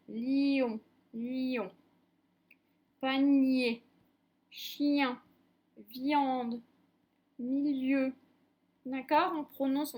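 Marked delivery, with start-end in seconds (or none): 0.1-1.7 "lion" with the i carried on into "on"; liaison on lion. Shown as a demonstration. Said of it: "il se poursuit un petit peu". 3.0-8.1 "Panier, chien, viande, milieu", each i joined to the next vowel; word by word, never splitting i from its vowel; linked i glide. Shown as a demonstration. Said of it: "on ne sépare pas".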